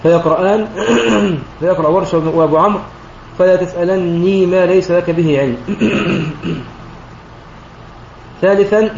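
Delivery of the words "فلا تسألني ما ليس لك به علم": تسألني with a doubled nun with kasra and the final ya kept, recited slowly; Warsh's reading. Shown as a demonstration. Teacher demonstrating Warsh and Abu Amr's reading, slow recitation. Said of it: "مكسورة لكن مع إثبات الياء".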